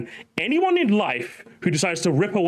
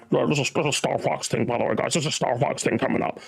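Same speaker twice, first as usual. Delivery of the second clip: mock casual leaker; 3 semitones lower than usual. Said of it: "and just goes".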